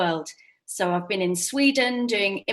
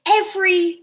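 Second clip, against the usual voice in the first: staccato; 6 dB louder, much slower than usual. Shown as a demonstration. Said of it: "Word at a Time Story".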